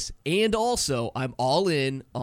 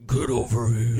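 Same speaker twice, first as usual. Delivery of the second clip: menacing Scorpion call; 2 semitones lower, 5 dB louder than usual. Shown as a demonstration. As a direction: bark it like a fighter's taunt. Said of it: "It should be like".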